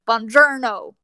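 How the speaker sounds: buongiorno with hard, flat American R's; American accent. Retold or imitated. Mimicking the movie hero's Italian, thick American accent. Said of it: "that American accent".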